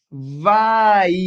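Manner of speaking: "vai" stretched loudly so each sound glides into the next; joined sounds. Shown as a demonstration. Teacher showing three sounds being joined, stretched-out "vai". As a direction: draw out "vai", blending v, a and i. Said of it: "eu estou juntando três sons".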